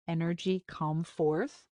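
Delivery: lightly mocking echo, said flat; sarcastic repeat. Yarek mocking Arya's spell words, mild sarcasm. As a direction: throw her words back with mild sarcasm. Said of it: "I can hear the sarcasm in his voice".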